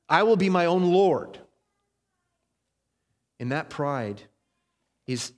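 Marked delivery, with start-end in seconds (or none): 0.1-1.4 loud, higher mock declaration; proud defiance. Pastor acting out a proud rebel's boast, loud and defiant. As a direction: proclaim self-rule with hammed-up pride. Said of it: "The first is the kind of".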